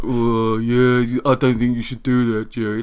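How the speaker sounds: lightly voiced slow-witted talking dog; a hint of a cartoon dog character; Roscoe. Dog advising his owner Jerry, lightly put-on character voice. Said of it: "And then Roscoe's like".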